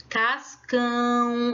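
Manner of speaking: "Cascão" in two slow syllables, weight on CÃO; stress on last syllable. Shown as a demonstration. Teacher showing the class the strong syllable, "Cascão" stressed on CÃO. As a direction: draw out "Cascão", pushing the final CÃO. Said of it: "eu boto mais ênfase".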